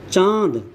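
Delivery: चाँद with a long nasalised vowel; anunasik pronunciation. Shown as a demonstration. Teacher adding an anunasik example, nasalised vowel in चाँद. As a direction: let the vowel of चाँद out through mouth and nose. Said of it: "मुंह से भी और नाक से भी".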